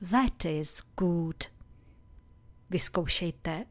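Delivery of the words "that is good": slow model phrase. Shown as a demonstration. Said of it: "byste mohli říct".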